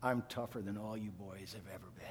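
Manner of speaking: faint whisper with a smile; dying father whispering to his sons; whispered boast. Retold or imitated. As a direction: breathe it out playfully.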